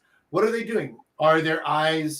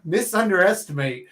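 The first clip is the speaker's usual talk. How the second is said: George Bush; 3 semitones higher than usual. Pretend. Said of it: "I'm gonna do a George Bush here for you".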